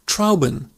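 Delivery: Trauben with "ow" as in cow; Trauben, first syllable rhyming with cow; "ow" vowel. Shown as a demonstration. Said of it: "like ow in cow".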